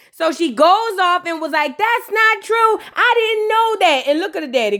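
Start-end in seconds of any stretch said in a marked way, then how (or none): 1.8-4.1 high, slow whiny denial; protesting girl. Retold or imitated. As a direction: drag out the hurt protest. Girl denying, voiced.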